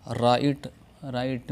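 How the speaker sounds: राइट with long आई, gh silent; English word right. Shown as a demonstration. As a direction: say राइट slowly. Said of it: "जीएच की आवाज़ खामोश". (राइट, जीएच खामोश)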